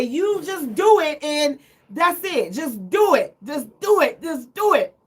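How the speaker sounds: firm, repeated just do it; bossy no-back-talk command; bossy demand. Pretend. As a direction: lay down the law to him. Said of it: "just don't give me no back talk".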